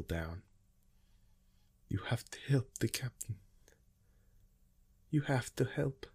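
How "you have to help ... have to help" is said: whispered, tearful begging; woman on the ground begging John, in tears; pleading. A narrator's reading. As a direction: beg through tears. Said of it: "the woman on the ground pleaded".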